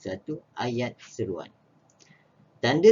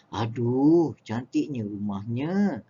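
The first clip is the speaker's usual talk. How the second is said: a touch of wonder, drawn out; mild admiring aduh; admiring exclamation; slower than usual. Shown as a demonstration. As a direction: gush over a lovely house. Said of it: "dua perbezaan intonasi saya".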